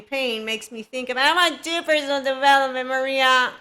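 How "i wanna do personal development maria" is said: louder mock plea; mock eagerness. Imitating people who want development from the coach, mock eagerness. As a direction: put on an eager would-be student.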